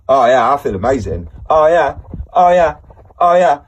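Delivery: hammed-up elation building; manic high. Shown as a demonstration. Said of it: "Oh, I feel all right now".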